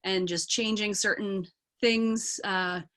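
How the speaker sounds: learner's Scottish accent, conversational; Scottish accent still being worked on. Shown as a demonstration. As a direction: explain it casually in a practised Scottish accent. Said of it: "it gets into the Scottish accent".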